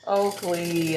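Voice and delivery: calling the dog's name firmly. Real, not acted. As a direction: call out Oakley like a scolding. Calling the dog on the counter.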